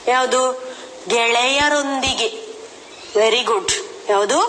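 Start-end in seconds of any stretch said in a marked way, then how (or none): 1.1-2.3 ಗೆಳೆಯರೊಂದಿಗೆ said slowly, syllable by syllable. Shown as a demonstration. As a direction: spell the joined word out slowly. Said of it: "ಆ ಪದ ನಿಮ್ಮ ಪಾಠ ಪುಸ್ತಕದಲ್ಲಿ ಇದೆ". (ಅಕ್ಷರ ಅಕ್ಷರವಾಗಿ ನಿಧಾನವಾಗಿ)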